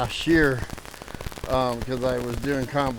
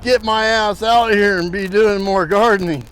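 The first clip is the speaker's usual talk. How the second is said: out of breath, laughing it off; winded from the work; heavy breathing; 5 semitones higher, 5 dB louder than usual. Real, not acted. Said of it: "I'm out of shape, man".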